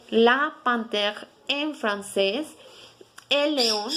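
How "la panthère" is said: La panthère said slowly; slow repeat. Shown as a demonstration. Teacher repeating La panthère slowly for the class. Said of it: "Se conoce como".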